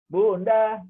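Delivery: imitating a child calling Bunda. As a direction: call out to mother. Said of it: "sampai teriak anak".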